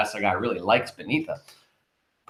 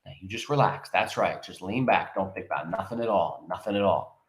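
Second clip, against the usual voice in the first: speaking softly; 5 semitones lower, 8 dB quieter than usual. A narrator's reading. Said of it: "speaking softly, expertly, rapidly".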